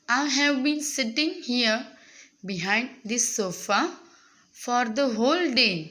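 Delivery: very slow, phrase-by-phrase reading; teacher's slow read-aloud. Acted. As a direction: read it out slowly for young learners, pausing between phrases. Reads the monologue aloud to students. (सावकाश, थांबत थांबत वाचन)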